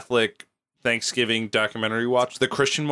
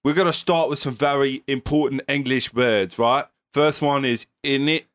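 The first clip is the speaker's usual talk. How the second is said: put-on Cockney accent. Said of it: "You're switching from Cockney to Japanese".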